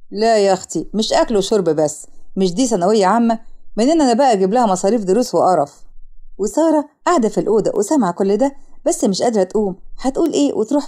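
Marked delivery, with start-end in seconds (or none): 0.1-5.8 objecting husband. Acted. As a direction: lower voice of a grudging husband. Husband argues against keeping the niece. (جوز خالة معترض ومتضايق)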